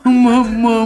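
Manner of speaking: laughing. Real, not acted. Stuck laughing on word.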